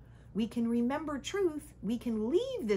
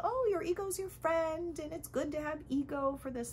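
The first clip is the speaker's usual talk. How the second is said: mocking quote; 7 semitones higher than usual. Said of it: "teachings in the spiritual world that tell".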